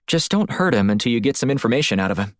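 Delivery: hint of a concerned female partner; lightly voiced female colleague. Woman planning next steps with her partner Black, lightly voiced.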